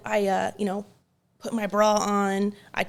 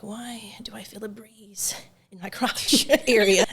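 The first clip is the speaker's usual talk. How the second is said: whisper. Retold or imitated. Puzzled inner thought.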